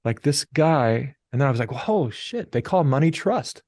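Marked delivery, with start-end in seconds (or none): 1.7-3.6 retold realization. Man retelling his money epiphany, mildly amazed. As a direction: let the sudden insight lift your voice.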